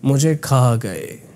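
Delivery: slow, dug-in reading of मुझे खा गए; deep reading. Shown as a demonstration. Coach reads a line showing deep words, slow. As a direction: draw the phrase out and dig into it. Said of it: "जैसे मैं पढ़ूँ".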